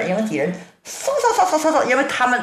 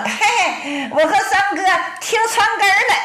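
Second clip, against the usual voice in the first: giggling through the words, pitched up; laughing confession; 8 semitones higher than usual. Acted. Jingun admits to Ruan Ying they eavesdropped, laughing sheepishly. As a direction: own up while chuckling.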